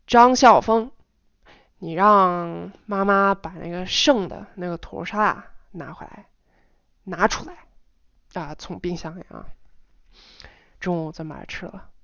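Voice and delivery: "张笑峰" called out loud, the rest easing off; strong stress at first, de-stressed by "中午咱们把它吃了"; varied intonation. Shown as a demonstration. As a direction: call "张笑峰", then let the instruction relax. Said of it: "several times in kind of different ways".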